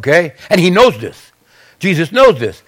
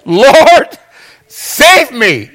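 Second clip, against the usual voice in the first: urgent plea; 4 semitones higher, much slower than usual. Shown as a demonstration. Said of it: "this is what you want to say".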